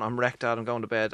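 a weary son heading to bed; tired teen. Retold or imitated. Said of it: "I was going".

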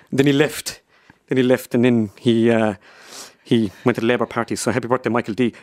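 a light take on a politician's voice; lightly voiced Irish politician, plodding; Micheál Martin impression. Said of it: "First up, Micheál Martin".

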